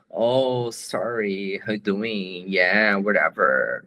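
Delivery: put-on a light American accent on English phrases; loose, casual American accent, lightly done. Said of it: "O americano fala meio assim".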